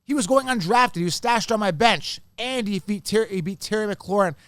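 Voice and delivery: excited rant about an undrafted find; excited build-up. Real, not acted. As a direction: make the case with rising excitement. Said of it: "I'm building up".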